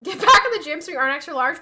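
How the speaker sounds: mock grumpy husband. Quoting grumpy husband's jab.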